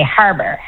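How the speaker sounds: "harbor" with a flattened A; flat Newfoundland A. Shown as a demonstration. Coach showing the flatter A in "harbor". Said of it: "the kind of flatter A that we have".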